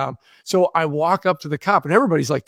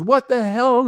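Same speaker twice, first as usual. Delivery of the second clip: mock angry cop; 7 semitones higher, slower than usual. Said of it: "pissed off".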